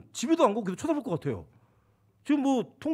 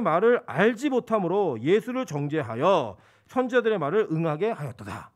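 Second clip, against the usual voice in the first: scripture reading. Acted. Reads scripture aloud.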